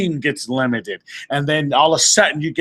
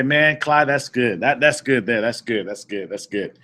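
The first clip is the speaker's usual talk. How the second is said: voicing the audience; 5 semitones lower than usual. Speaker putting words in the crowd's mouth, an approving murmur that fades away. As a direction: hand the crowd its own approving line, trailing off. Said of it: "Somebody say".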